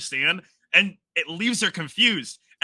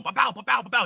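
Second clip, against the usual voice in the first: mimicking rapid chatter; 4 semitones higher, faster than usual. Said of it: "he's still going".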